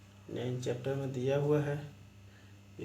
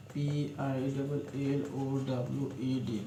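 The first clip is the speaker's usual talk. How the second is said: slow spelling; slower than usual. Shown as a demonstration. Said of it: "पीलोड लिखना है".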